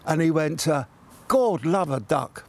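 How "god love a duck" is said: slow, light Cockney copper voice, "God love a duck" drawn out; a hint of a Cockney policeman, taken slowly.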